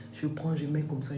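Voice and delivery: breathy hushed whisper. Real, not acted. Packing away her shoes, she whispers quietly. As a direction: say it under your breath.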